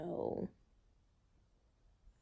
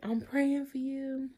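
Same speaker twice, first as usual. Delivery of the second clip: higher, sing-song mock well-wisher; imitating well-wishers; 6 semitones higher, 3 dB louder, slower than usual. Mimicking everybody's cheerful encouragement, lightly higher sing-song. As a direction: lightly mimic people saying they pray for you. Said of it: "everybody like".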